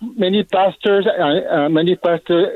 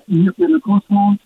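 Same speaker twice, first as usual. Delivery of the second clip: glitching phone line; broken-up caller audio; garbled audio; 4 semitones higher than usual. Real, not acted. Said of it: "Your voice is garbled".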